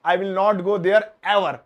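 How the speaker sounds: "I will not go there ever" slow and a bit loud; slow emphatic teacher read; slow model sentence. Shown as a demonstration. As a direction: dictate it clearly. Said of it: "ये देखो".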